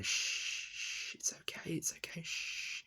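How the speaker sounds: whispered, soothing shush; imitated parental shushing. Parents calming their crying child in the cinema, whispered shushing. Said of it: "my mum and dad were literally going".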